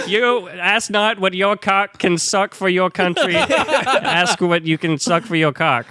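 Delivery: put-on hammy Boston accent as JFK; mock Kennedy speech in Boston accent.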